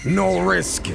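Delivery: lilting Swedish inflection on no risk; Swedish accent. Shown as a demonstration. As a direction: say it with a playful Swedish lilt. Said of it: "my Swedish inflection shines through".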